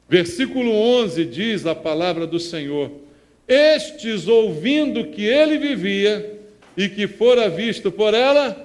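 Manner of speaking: loud proclamation of the Psalm; a pastor booming Scripture from the pulpit; preaching at full force. Acted. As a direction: declare the verse to the church.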